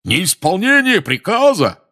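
outraged shout. A narrator's reading. Portrait outrage continues.

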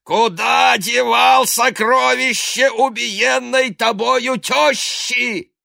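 high, slow hoarse yell at his victim; a priest throttling a man, shouting hoarsely. Acted. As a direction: choke out the accusation in a high, slow, hoarse roar. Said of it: "закричал охрипшим голосом".

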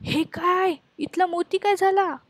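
high startled cry at the missing pearl; shocked shriek. A narrator's reading. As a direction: shriek in sudden alarm. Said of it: "एकदम किंचाळल्या".

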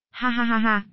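short wild mocking cackle; mad laughter. A narrator's reading. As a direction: cackle like a madman. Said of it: "một bên cười như điên".

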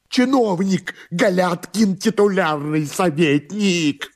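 high, agitated questioning; anxious master. Acted. Master asks servant for the address, high anxious questioning. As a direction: press for an answer in a high voice.

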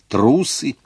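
высоко и резко «Трусы!»; брось им в лицо с презрением; презрительный окрик. Acted. Ролан в возмущении кричит крестьянам. (Ролан бросает крестьянам: «Трусы!», высоко и резко)

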